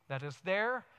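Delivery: soft, low, hushed; quiet prayerful words. Shown as a demonstration. Preacher modelling a quiet centring prayer, hushed. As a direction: breathe it out gently like a prayer. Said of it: "how much time do you need".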